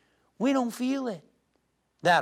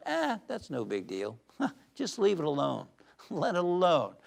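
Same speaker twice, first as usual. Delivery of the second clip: easygoing laugh, no big deal; laid-back chuckle; 4 dB quieter than usual. Retold or imitated. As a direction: toss it away with a chuckle. Voices relaxed inner reply.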